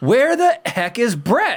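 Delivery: put-on very high, swooping, drawn-out yell. Retelling calling out across the office for the boss: imitating own past yell. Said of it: "I literally just yelled out".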